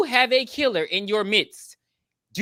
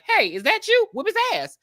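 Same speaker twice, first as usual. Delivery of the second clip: loud, high jeering crowd; rowdy crowd egging on a fight; mock crowd heckle; 14 semitones higher, 4 dB louder than usual. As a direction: heckle him from the stands, higher and louder. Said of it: "the people were like".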